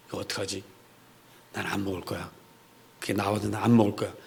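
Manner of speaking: low, very soft voice of thought; inward resolve. Acted. Daniel deciding about the king's food, murmured inner resolve. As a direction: murmur a private vow to yourself. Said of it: "이렇게 속으로 결심을".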